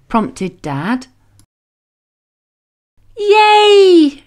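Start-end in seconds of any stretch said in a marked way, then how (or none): 3.2-4.2 put-on high, loud joyful shriek of a small boy. James cheers as his father opens the box, shrieking. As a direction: squeal it with delight. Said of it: "shrieked James".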